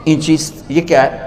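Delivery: a touch of rustic innocence; naive villager. Retold or imitated. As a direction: ask like a guileless country man. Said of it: "بڑے بھول پن میں کہتے ہیں".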